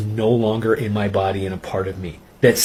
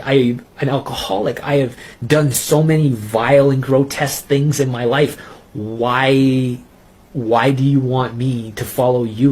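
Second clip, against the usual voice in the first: desperate outburst; 3 semitones higher than usual. Retold or imitated. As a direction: fling the words back at the voice, raw. Pleading outburst at Jesus's voice.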